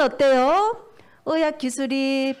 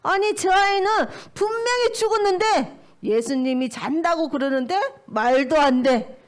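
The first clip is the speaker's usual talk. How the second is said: higher, lightly mocking disbelief; acted scoff, pitched up at the start; mild scoffing; 4 semitones higher than usual. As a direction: play a scornful crowd, not too hard. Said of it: "막 비웃었을 거예요".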